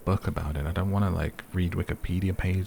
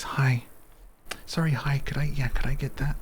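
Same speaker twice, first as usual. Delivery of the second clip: polite, much higher-pitched voice; high public voice; 8 semitones higher than usual. Shown as a demonstration. Ordering something in public, high public voice. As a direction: pitch it up, apologetic and harmless. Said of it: "Probably shouldn't give away my public voice".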